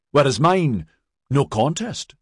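high, aggrieved jibe; wounded, sardonic protest; jealous sarcasm. A narrator's reading. Maxon sneers at favouritism.

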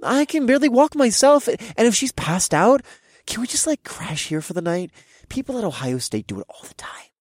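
put-on high whiny drunk pleading; fake drunk. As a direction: play tipsy and helpless. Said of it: "I feigned drunkenness".

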